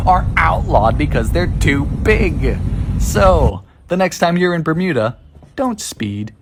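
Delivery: low-pitched presenter narration; explainer narration. Acted. Presents Bermuda driving facts.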